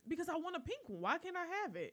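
put-on high, whiny pleading child; whiny begging. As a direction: beg like a spoiled kid. Begging for pink ring.

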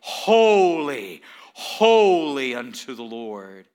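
loud, drawn-out holy, holy, holy; voicing the seraphim's cry. Pastor voicing the seraphims' praise, loud and drawn out. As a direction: proclaim it like the angels' chant. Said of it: "these seraphims day and night say".

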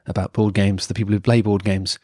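lightly smooth radio-host intro; a hint of bedroom voice for the show's intro. Real, not acted. Host welcoming listeners to the board game podcast, bedroom voice. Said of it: "you're using your bedroom voice".

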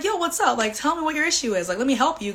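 high friendly energy; eager to help; upbeat and eager. Retold or imitated. Retold offer to friend.

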